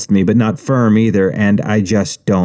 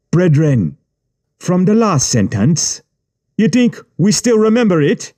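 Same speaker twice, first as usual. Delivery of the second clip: sarcastic gang boss; 9 semitones higher than usual. A narrator's reading. Yubi mocking the stalled reader to his men, high and sarcastic. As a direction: needle him in front of the others.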